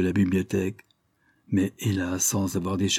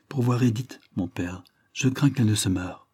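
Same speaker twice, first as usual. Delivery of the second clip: worried daughter. Acted. Maria answers her father.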